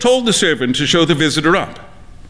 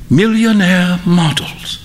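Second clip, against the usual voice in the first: droll friend; 4 semitones higher than usual. A narrator's reading. Friend's closing epigram.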